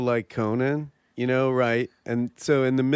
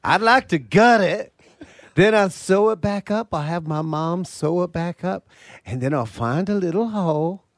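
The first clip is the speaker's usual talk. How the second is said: high, put-on southern-style voice; hammed-up high genteel voice; genteel dreamer character; 4 semitones higher than usual. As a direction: wistfully confide an absurd dream. Plays dreamy southerner describing his wish.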